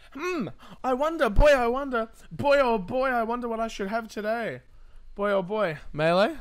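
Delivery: boy-oh-boy wondering in a squeaky put-on voice; silly cartoon voice. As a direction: ham up a giddy cartoon kid. Pondering skin choice in silly voice.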